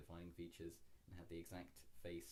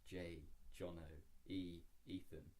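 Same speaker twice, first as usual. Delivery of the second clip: ominous reading; 2 semitones lower than usual. Acted. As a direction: read it like a grim omen. Reading dark story aloud.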